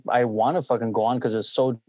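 talking through a burp; burping the words. Real, not acted. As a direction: beer burp mid-sentence. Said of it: "again, Coors burp".

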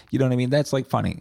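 usual speaking voice

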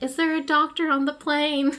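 urgent flight attendant call. Retold or imitated. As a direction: call out for a doctor on board. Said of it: "a flight attendant was like".

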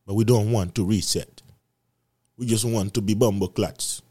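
playful put-on Jamaican accent. Podcaster joking that people don't want to reset, in Jamaican accent. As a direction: lean into a light Jamaican accent. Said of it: "I'm going to Jamaican accent".

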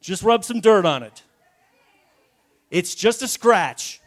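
loud, dismissive dad; tough-love father. Acted. Dad to kid with a scrape, loud tough love. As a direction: brush off the injury in a loud fatherly voice. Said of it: "That's fatherly love".

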